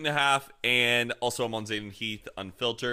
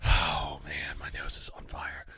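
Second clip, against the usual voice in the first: whisper; 8 semitones lower than usual. Real, not acted. Burning nose after snorting dust.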